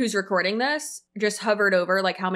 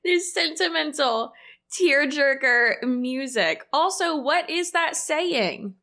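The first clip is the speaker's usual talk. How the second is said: mocking disbelief; 4 semitones higher, slower than usual. Real, not acted. Mocking sentimental background music.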